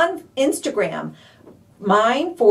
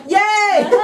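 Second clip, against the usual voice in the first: high excited squeal; very high delighted yay; 11 semitones higher, 4 dB louder than usual. Retold or imitated. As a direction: cheer it like a thrilled kid. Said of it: "I'm like".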